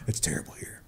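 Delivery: brag, then whisper the complaint; bragging influencer trailing off to a hush; mock influencer. Mocking influencer, ends whispered.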